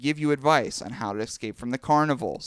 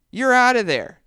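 excited; 9 semitones higher, 7 dB louder than usual. A narrator's reading. Dramatic ending of a scene.

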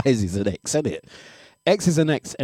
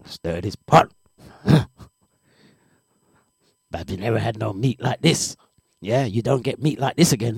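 the ex's voice. Retold or imitated. Ex stirring curry goat to taunt Babsy, lightly put-on sly voice. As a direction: tease her with the pot, half-hearted sly voice. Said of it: "give him that same voice again".

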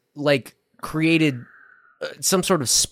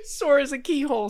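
silly aside; 10 semitones higher, 6 dB quieter than usual. Pretend. Whispered silly aside while others talk.

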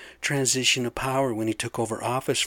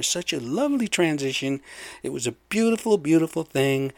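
mock gushing; 3 semitones higher than usual. Sarcastic praise of transition.

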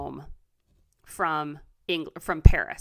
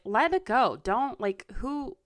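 imitating friends' advice; 4 semitones higher than usual. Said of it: "so many people in my life are like".

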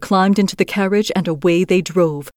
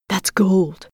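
robbers crying out. Acted. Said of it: "they cried".

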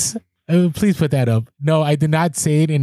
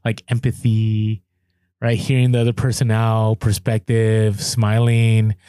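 slow calm coaching voice; 5 semitones lower, slower than usual. Retold or imitated. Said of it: "heard Chris Voss's voice in my head".

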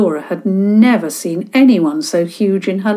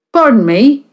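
friendly; 4 semitones higher, 6 dB louder than usual. Acted. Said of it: "he said in a friendly sort of voice".

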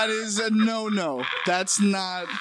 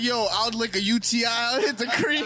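imitating friend; 3 semitones higher than usual. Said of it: "this fool's like".

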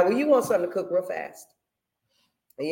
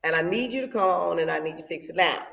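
blunt prayer; 3 dB louder than usual. Retold or imitated. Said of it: "me and the Lord talk like this".

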